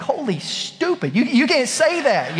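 a dad fumbling for a clean swear; hammed-up exasperated dad; flustered scolding. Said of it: "I was like".

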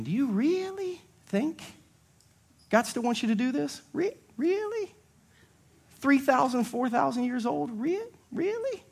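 high, soft, sneering 'really'; mocking Satan. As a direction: doubt dripping from a squeaky voice. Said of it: "Satan's still asking that question".

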